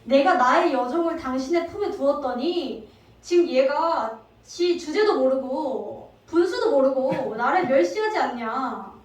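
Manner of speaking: slow, loud, indignant scolding; angry wife. Acted. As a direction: lay down the law to the husband, slowly. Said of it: "단단히 화가 나서 이렇게 말합니다". (남편을 다그치는 아내, 느리고 큰 화난 목소리)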